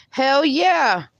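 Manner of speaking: excited cheer. Real, not acted. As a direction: hype her up. Cheering a chatter's confidence.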